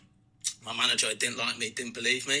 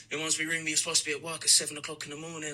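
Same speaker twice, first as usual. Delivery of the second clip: higher, quicker retold mum; lightly voiced nagging mum; 4 semitones higher, faster than usual. Mum telling hungover teenager he's late, lightly imitated. Friend's mum waking him up.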